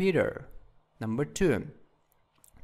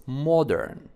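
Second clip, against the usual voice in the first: "modern" with the stress on MOD; stress on first syllable. Shown as a demonstration. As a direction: say MOD-ern, falling away after the first syllable. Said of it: "on the first syllables".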